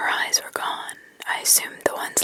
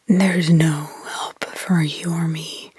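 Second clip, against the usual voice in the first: lower, louder whispered growl, slow; angry roar; 5 semitones lower, 6 dB louder, slower than usual. Acted. Possessed girl turning on Mark, lower, louder, slow whispered growl. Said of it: "Cindy's voice was now an angry roar".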